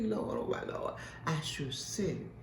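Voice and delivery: breathy, hushed to the Lord; overcome, barely above a whisper; awed hush. Retold or imitated. Preacher retelling answering God, awed and hushed.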